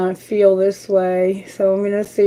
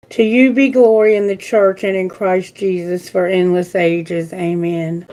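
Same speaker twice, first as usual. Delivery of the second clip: prayer; 2 semitones lower than usual. Acted. Reads a prayer aloud.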